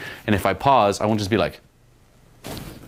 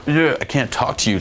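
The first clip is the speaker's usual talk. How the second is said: mock-sulky, higher-pitched refusal; butthurt; 4 semitones higher than usual. Shown as a demonstration. Coach showing guys what to avoid, butthurt whine. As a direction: play it hurt and too serious. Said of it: "like, butt hurts".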